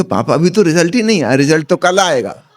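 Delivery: lightly acted bewildered complaint; son's mock protest. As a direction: protest like a wronged son in a joke. Son protests to slapping father.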